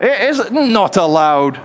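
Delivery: slow, stretched-out pronouncement; drawn-out catchphrase. Acted. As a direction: draw each word out like a catchphrase. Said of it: "That's my catchphrase".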